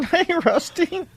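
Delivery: high, slow dummy voice; talking like a puppet. Acted. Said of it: "It sounds like it's you".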